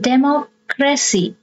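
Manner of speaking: Democracy pitched high, broken as demo-cracy; teaching demo of Democracy, with a break before cracy; third-last syllable stressed. Shown as a demonstration. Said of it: "you stress the third syllable from the".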